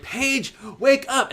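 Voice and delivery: high-pitched mock yell; urgent wake-up call. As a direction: call out loudly to rouse a sleeper. Piper calling to wake Paige.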